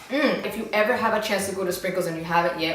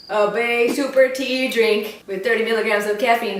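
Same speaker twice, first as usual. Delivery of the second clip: a touch of a TV commercial read; walking ad voice; 2 semitones higher, 4 dB louder than usual. Pretend. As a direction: read it like a cheerful product ad. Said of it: "Now I sound like a walking ad".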